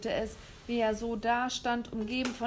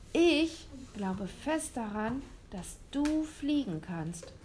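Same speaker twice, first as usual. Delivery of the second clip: earnest; 3 semitones higher than usual. Acted. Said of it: "sagte William und meinte es ernst".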